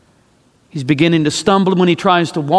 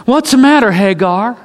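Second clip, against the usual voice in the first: angel asking; 4 semitones higher than usual. Acted. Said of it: "the angel comes to Hagar and says".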